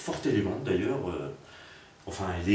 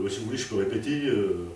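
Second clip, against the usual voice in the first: mock reply. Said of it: "j'avais presque envie de lui dire".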